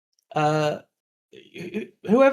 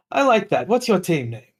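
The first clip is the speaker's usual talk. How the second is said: mustache twirling villain; 6 semitones higher, 5 dB louder than usual. Acted. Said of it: "twirls his mustache and he goes".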